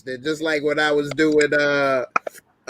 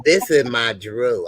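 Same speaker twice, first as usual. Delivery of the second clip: slow, low lightly voiced Drew impression; 5 semitones lower, slower than usual. Parody of Drew, slow and low. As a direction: play Drew slow and low for friends on stream. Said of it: "that's your Drew impersonation".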